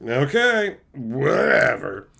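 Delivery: slow, fed-up disbelief; drawn-out eye-roll at the designers; exasperated. Retold or imitated. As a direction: sigh out a bored whatever. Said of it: "And it's like".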